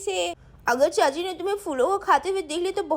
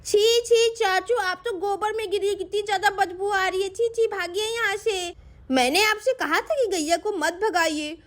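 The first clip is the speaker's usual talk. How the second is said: put-on a sweet girl coaxing the cow, pitched up; little girl Sweety; 3 semitones higher than usual. Sweety scolds uncle.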